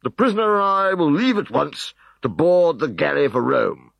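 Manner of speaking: high, loud flustered excuses; flustered prefect. Acted. Prefect Odious Asparagus escaping reprisals, high and flustered. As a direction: stammer and hurry away.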